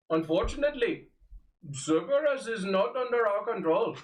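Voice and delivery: lightly voiced old sage; a hint of a wise old mentor; old man voice. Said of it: "Indian Deckard Cain".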